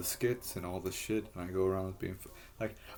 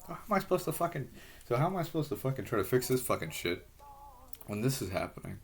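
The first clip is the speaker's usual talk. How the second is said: replaying his frustrated outburst, pitched way up; retold outburst; 4 semitones higher than usual. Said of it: "So I'm like".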